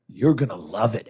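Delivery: low mock-menacing welcome; threatening. Comic mimics Texas newcomers welcoming a visitor, threateningly. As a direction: make the friendly welcome a veiled threat. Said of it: "they say it in the most threatening way".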